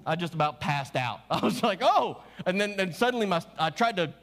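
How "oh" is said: high, louder startled oh; a jolt of surprise; stunned oh. Retold or imitated. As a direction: caught completely off guard. Stunned by Steve's answer.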